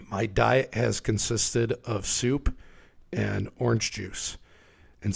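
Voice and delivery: hoarse throat from a cold; rough, worn-out sick voice; raspy sick voice. Real, not acted. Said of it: "apologies if I sound like a raspy old cowboy".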